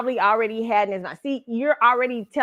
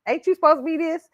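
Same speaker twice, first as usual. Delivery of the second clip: mocking boyfriend; 8 semitones higher, faster than usual. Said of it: "throw it out back at me".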